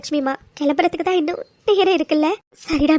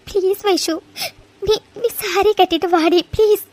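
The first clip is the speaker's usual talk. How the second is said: teary, halting begging; tearful pleading; 2 semitones higher than usual. Acted. Upset friend begs Vaishu to put on a saree, tearfully pleading. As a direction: plead through tears.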